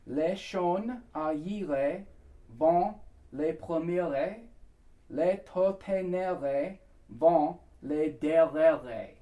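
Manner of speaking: very slow, phrase-by-phrase foreign lyric; measured syllables with long pauses between phrases; pronunciation demo. Shown as a demonstration. Coach teaching the final section, slow and careful. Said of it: "final section".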